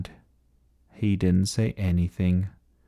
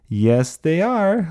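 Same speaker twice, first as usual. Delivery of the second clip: high, drawn-out gleeful answer; 8 semitones higher, slower than usual. A narrator's reading. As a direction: relish it, slowly and high. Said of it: "laughed Lucas".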